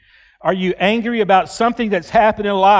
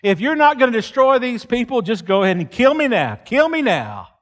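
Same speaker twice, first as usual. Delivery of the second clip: louder, higher defiant demand to God; furious prophet issuing God an ultimatum; angry ultimatum; 4 semitones higher, 4 dB louder than usual. Acted. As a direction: throw down the ultimatum. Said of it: "That's what he says".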